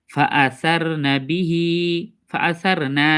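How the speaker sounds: slow ফাআসারনা বিহি, long last হি; measured recitation. Shown as a demonstration. Teacher modelling the verse before explaining a mistake, measured recitation. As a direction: recite ফাআসারনা বিহি slowly, holding the final syllable. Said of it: "এখানে কোনো টান টুন হবে না".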